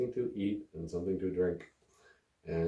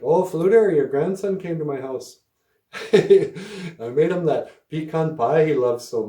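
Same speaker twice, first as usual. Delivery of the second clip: put-on high, loud, doting old lady, slowing at the end; sweet old lady; 6 semitones higher, 5 dB louder than usual. Grandma's friend telling his grandma about the pie, doting high voice. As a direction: coo like a proud doting grandma.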